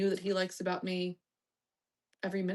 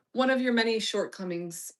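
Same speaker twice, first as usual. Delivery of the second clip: louder teasing repeat; mock disdain; 2 semitones higher, 4 dB louder than usual. Streamer teasing viewer about his shortcomings, mock disdain. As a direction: savour the insult.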